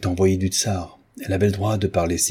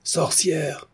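high-pitched voice calling out, falling; shrill cry; 9 semitones higher than usual. A narrator's reading. Voice from the back rows accusing, shrill cry. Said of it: "cria une voix aiguë".

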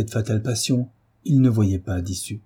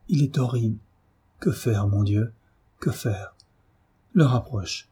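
weakened voice; 4 semitones higher than usual. Acted. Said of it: "d'une voix affaiblie".

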